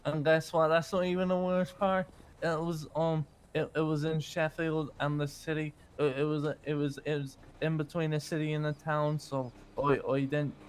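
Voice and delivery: light Irish lilt, relaxed; Irish accent. Acted. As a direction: slip back into an easy Irish accent. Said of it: "talk Irish".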